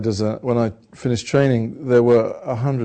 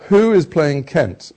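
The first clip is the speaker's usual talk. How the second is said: surprised; 8 semitones higher, 4 dB louder, much slower than usual. Retold or imitated. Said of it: "And I said".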